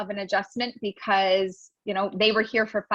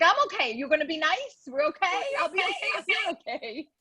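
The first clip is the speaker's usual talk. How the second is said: sweet reassurance; 6 semitones higher than usual. Retold or imitated. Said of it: "I'm like".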